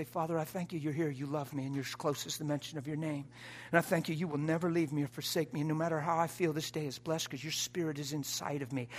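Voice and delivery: soft, steady spoken prayer; quiet prayer. Shown as a demonstration. Pastor showing a caller how to pray, softly. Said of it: "lift your hands and say".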